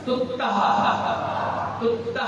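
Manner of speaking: तुत्तः ending in a soft breathed h after the a; visarga ending. Shown as a demonstration. Teacher models तुत्तः with its visarga breath. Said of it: "ता के बाद भी क्या है? विसर्ग है".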